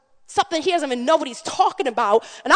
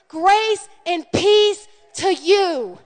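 slow blessing; 5 semitones higher, 3 dB louder, much slower than usual. Shown as a demonstration.

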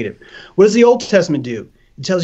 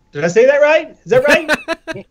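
mock unsure squeak; 11 semitones higher than usual. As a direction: ask in a small doubtful voice. Mock unsure self-check.

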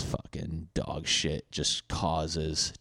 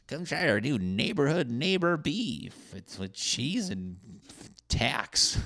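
mock ad voice; 7 semitones higher, slower than usual. Mock Arby's ad read.

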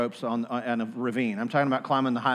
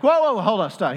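stopping the song; 5 semitones higher, 4 dB louder than usual. Retold or imitated. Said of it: "he's like".

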